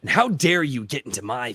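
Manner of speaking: put-on cocky, condescending teen; young Dalen. Shown as a demonstration. Writer demoing young Dalen, cocky and condescending. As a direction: sneer it like an arrogant teenager. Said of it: "he would be very much up here".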